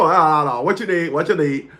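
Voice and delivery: lightly voiced mumbling uncle; Uncle Al impression. Uncle asks his nephew what he needs, lightly mimicked mumble. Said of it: "my uncle talked like this".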